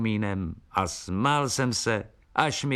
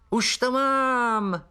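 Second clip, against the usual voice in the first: much higher, slow excited cry; exclaiming; much slower than usual. Acted. Filip exclaims he has the answer, high and drawn out. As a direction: cry out a sudden idea. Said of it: "vykřikl Filip".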